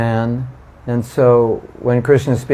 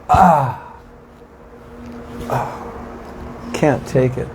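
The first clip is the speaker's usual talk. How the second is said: overwhelmed cry; 4 dB quieter, much slower than usual. Retold or imitated. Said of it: "I'm overwhelmed with emotion".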